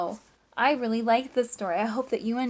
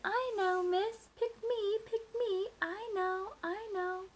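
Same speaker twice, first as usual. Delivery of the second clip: higher, pleading pick me; eager classmates; 9 semitones higher, 6 dB quieter, slower than usual. Acted. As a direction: kids straining to be chosen. Eager classmates voiced in story.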